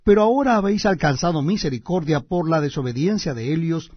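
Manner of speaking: solemn, measured scripture reading; booming biblical narration. Acted. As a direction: read it like a preacher at the pulpit. Reads scripture aloud.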